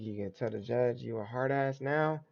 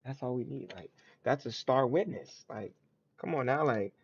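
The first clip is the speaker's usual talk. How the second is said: lightly acted, insistent prosecutor, pitched up; mock prosecutor; 3 semitones higher than usual. Prosecution telling the defendant the evidence hardly matters, mock insistent. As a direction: argue it like a cocksure prosecutor. Voices the prosecution arguing its case.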